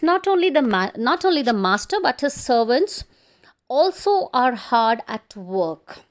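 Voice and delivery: loud classroom emphasis; emphatic example. Shown as a demonstration. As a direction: hit "not only" and "also" firmly. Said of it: "Suppose you have a sentence".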